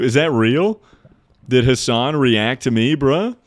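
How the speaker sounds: loud, high incredulous question; can't believe it, voice jumps up; shocked disbelief. Real, not acted. Streamer hearing Hassan reacted to him, loud and shocked.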